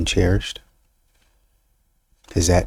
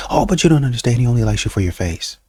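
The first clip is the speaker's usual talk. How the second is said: insistent friend; 4 semitones higher, faster than usual. Retold or imitated.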